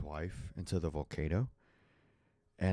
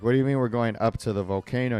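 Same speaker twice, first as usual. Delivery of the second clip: mock alarm; 3 semitones higher, 6 dB louder, faster than usual. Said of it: "And you're just like".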